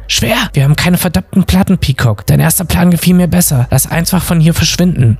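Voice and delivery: high-pitched, agitated protest; incredulous arguing. A narrator's reading. Bob tells Peacock they have no records, exasperated. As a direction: argue back high, in exasperated disbelief. Bob argues against the plan.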